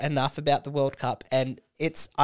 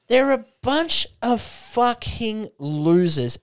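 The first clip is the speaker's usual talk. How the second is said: slow, higher sneering put-on voice; slow mock sneer; 7 semitones higher, slower than usual. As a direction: sneer it out like mocking a loser. Mocking the music fans.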